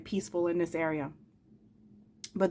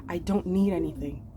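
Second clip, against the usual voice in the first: softer, quieter, mature reassurance; grown son, gentle; 2 semitones lower, 3 dB quieter than usual. Retold or imitated. Teen son comforting his mother, softly and calmly. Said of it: "And now it's".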